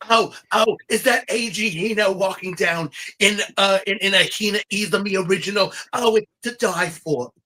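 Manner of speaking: lightly voiced Joan Rivers, gushing over the runway look. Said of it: "let me try to do my best Joan Rivers".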